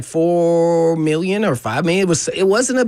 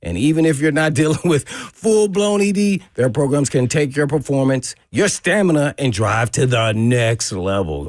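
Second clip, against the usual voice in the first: smooth, steady sponsor read. Acted. Host reading a sexual health sponsor ad on air, smooth pitch. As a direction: sell it like a radio spot.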